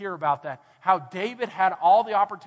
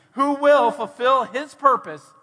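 loud, raised, slow declaration; defiant shout; 4 semitones higher, 7 dB louder, slower than usual. Retold or imitated. David answering fear with his faith, defiant shout. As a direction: hurl each word back, slow and forceful. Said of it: "screams back at it and says this".

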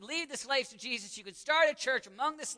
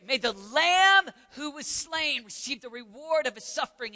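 raised, ringing declaration; crying out; 4 semitones higher, 5 dB louder than usual. Retold or imitated. Preacher repeating the missionaries' phrase to the church, crying out. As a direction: proclaim it high and loud. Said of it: "I'm gonna scream that".

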